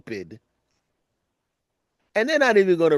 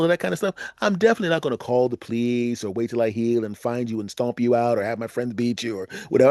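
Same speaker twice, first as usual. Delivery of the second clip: sarcastic; 2 semitones higher than usual. Pretend. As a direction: fake agreement dripping irony. Beaten guy sarcastically agreeing.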